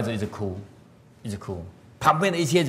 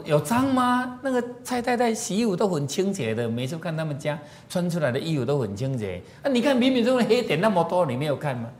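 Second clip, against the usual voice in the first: puzzled husband; 5 semitones higher than usual. Retold or imitated. Husband disputes wife's complaint.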